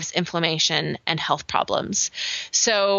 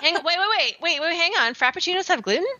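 high-pitched, stammering double take; startled, disbelieving question; incredulous surprise; 10 semitones higher, faster than usual. Real, not acted. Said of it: "tell that there's sarcasm there".

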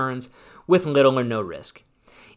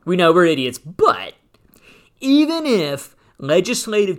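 mocking the government; 2 semitones higher, 4 dB louder than usual. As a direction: parody a sheepish official making excuses. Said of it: "that's how they wrote it".

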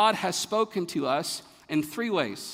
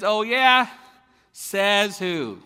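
loud schoolyard challenge, pitched up; defiant kid's comeback; 4 semitones higher, 7 dB louder, much slower than usual. Acted. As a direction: throw it back like a challenged kid.

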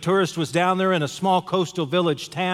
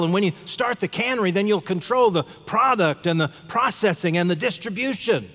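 lightly acted eager salesmanship, higher pitch; insistent advice; 5 semitones higher than usual. Tourist urging the fisherman to build a cannery, insistent. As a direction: keep building the business plan, pitch raised. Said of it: "he said to him aloud".

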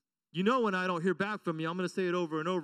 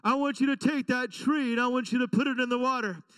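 louder, faster, rising fervour; excited command; 3 semitones higher, 4 dB louder than usual. Retold or imitated. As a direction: preach it with rising fire. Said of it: "I'm already there".

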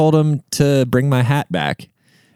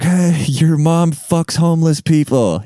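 drawn-out, high taunting yell at restrained volume; slow, raised-pitch retold heckle; mock yell; 6 semitones higher, slower than usual. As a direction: imitate kids yelling insults down the street. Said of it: "we're yelling at them like".

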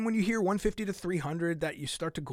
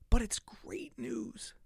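whisper; 7 semitones higher, 3 dB quieter, much slower than usual. Real, not acted. Teasing viewers with good news.

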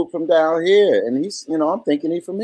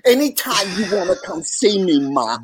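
lightly voiced old Jewish woman; a hint of an old Jewish woman from New York; 2 semitones higher than usual. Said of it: "sounds like an old Jewish woman".

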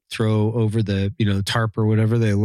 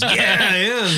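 mock Canadian accent; 10 semitones higher, slower than usual. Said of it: "I can't do a Canadian accent".

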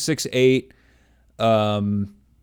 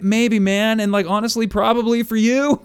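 put-on wry older self; 5 semitones higher than usual. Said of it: "it's like".

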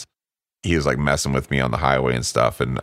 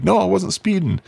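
mock friend denial. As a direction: play the drunk friend as a joke. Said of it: "And he's like".

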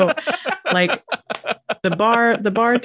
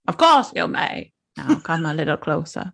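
Katharine Hepburn voice. Pretend. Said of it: "not even a very good Eleanor of Aquitaine".

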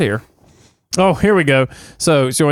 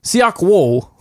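plain American accent on "Siak Woo"; white-guy pronunciation. Shown as a demonstration. Giving the character's name, white-guy American accent. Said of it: "do it as a white guy".

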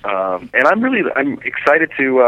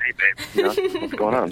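softer, laid-back come-on, rising at the end; casual smooth greeting; 7 dB quieter than usual. Shown as a demonstration. Director shows host how he really greets women, softly smooth. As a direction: slide into an easy flirty hello. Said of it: "I talk like that all the time".

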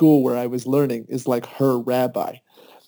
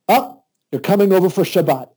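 delighted invite; 6 semitones higher, 5 dB louder than usual. Retold or imitated. Rabbi's warm invitation retold.

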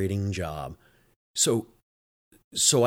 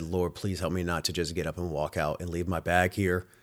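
desperate prayer; 3 semitones lower, 4 dB quieter than usual. Retold or imitated. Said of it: "And I just prayed".

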